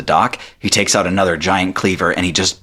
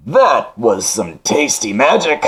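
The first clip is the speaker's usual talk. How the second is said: distant echo; 5 semitones higher, slower than usual. Acted. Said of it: "from an echoing distance".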